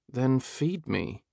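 playful. Acted. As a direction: tease him, drawing it out slowly. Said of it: "Sam instructed playfully".

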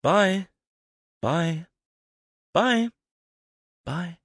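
high, bright repeated goodbyes as the train leaves; calling out goodbyes. Acted. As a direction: wave them off, voice lifted high. Seeing someone off on train.

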